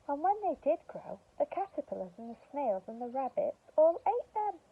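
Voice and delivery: expressive storybook narration; reading to children. Acted. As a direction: tell it like a bedtime story.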